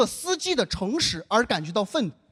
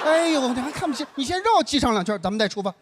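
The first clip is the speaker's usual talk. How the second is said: sarcastic. Retold or imitated. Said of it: "我就故意这么去说嘛".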